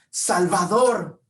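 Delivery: slow, high, solemn declaring; reverent proclamation. Retold or imitated. Bartimeo declares who Jesus truly is, slow and reverent. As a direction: proclaim each title with awe. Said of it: "Lo que Bartimeo decía".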